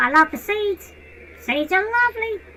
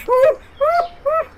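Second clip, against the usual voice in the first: pained ooh; 5 semitones higher, 3 dB louder than usual. Pretend. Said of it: "That's hurt".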